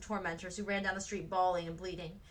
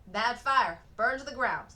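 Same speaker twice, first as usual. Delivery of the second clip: bitter, louder sneer; 3 semitones higher, 7 dB louder than usual. A narrator's reading. Woman answering Frances, bitter sneer. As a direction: spit it out with bitterness. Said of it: "the woman sneered".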